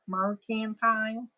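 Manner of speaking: mercantile said the Southern way; Southern twang. Retold or imitated. Reading chat a Southern-accented mercantile.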